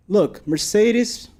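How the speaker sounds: drawn out, high excited call. Real, not acted. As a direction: point it out, thrilled. Spotting cars in the race.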